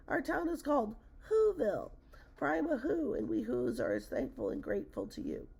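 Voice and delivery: very high little call; tiny calling voice. A narrator's reading. Mayor of a tiny town calls to the elephant, high and piping. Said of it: "called the voice".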